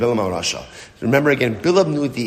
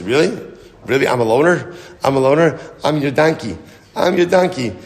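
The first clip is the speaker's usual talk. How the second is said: incredulous; 3 semitones higher, 4 dB louder than usual. Acted. Donkey answering its owner's loaner excuse, incredulous. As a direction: throw it back at him in disbelief.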